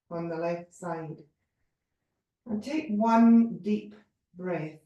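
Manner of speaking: unhurried meditation guide, pausing between phrases; measured yoga relaxation voice; guided body scan. Real, not acted. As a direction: lead them through the body, leaving room to breathe.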